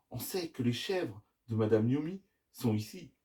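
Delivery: ordinary delivery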